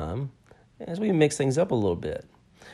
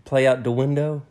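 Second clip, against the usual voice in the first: louder teasing question; louder mock incredulous; 3 semitones higher, 5 dB louder than usual. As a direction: needle her with the phrase again. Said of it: "That's not how".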